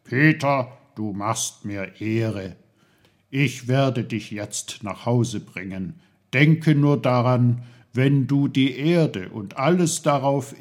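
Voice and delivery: lightly voiced kindly uncle, measured and emphatic; Onkel Pfefferkorn, earnest mentor. Uncle says farewell and reassures the boy, earnest.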